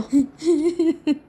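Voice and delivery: high acted sob; wordless whimpering wail of a mother; hammed-up crying; mock sobbing wail. Mother wails at ICU news.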